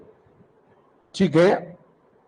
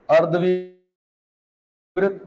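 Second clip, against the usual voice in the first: अर्धविवृत drawn out very slowly for writing; slow dictation; much slower than usual. Shown as a demonstration. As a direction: stretch each syllable of अर्धविवृत. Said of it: "लिखो".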